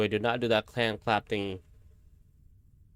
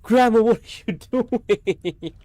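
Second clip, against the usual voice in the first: drawn-out high, loud frightened cry; slow, shaken plea at grandma; 11 semitones higher, 8 dB louder, slower than usual. Real, not acted. Scared grandson crying out at grandma, frightened.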